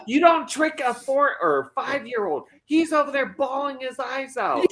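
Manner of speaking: high-pitched mock indignation with laughter; outraged mom. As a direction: imitate a mother scolding, half laughing. Voices the outraged mother from video.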